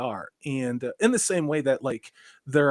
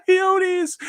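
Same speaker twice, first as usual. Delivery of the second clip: coyotes said high through a laugh; laughing incredulously; 7 dB louder than usual. Real, not acted. Reading a chat comment, laughing at the brainiac's coyotes idea. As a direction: laugh out the word coyotes in disbelief.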